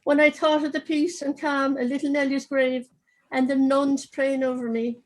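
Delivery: lively reading aloud of a comic novel; story reading. Acted. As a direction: read the passage to the audience with dry humour. Author reads from his book.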